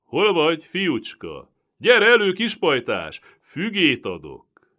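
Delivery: high, loud coaxing shout into the trees; calling out loud. A narrator's reading. Turkish soldier calling loudly for the hidden boy. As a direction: lure the hidden child out with a sly call. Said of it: "kiáltozni kezdett".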